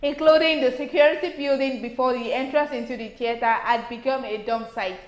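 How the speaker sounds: even, measured newsreader delivery; news read. Acted. Co-host reading a report on the theatre, news read.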